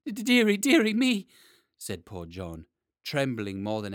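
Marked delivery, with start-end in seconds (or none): 0.1-1.3 high, stammering fright; frightened stammer. Acted. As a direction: stammer it out in terror. Terrified blacksmith caught by dragon.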